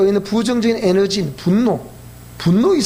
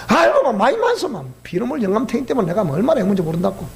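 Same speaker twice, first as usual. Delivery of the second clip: put-on Gyeongsang dialect old woman. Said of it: "경상도 버전으로 얘기하지요".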